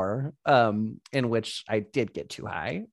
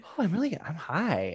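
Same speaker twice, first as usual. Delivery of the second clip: pretending to be high; 5 semitones higher, 4 dB quieter than usual. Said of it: "best acting of my life".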